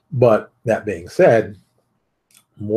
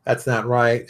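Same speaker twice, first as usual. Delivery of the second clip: slow, drawn-out mock complaining; mock whine; 3 semitones higher, 5 dB louder, slower than usual. Mocking viewers who whine about the price, slow mock whine. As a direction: whine it slowly like a sulking customer. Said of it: "Some of you complaining".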